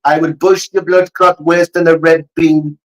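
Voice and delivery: mock threat in put-on Jamaican; Jamaican accent. Shown as a demonstration. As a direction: play a Jamaican tough talker. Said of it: "do the Jamaican accent".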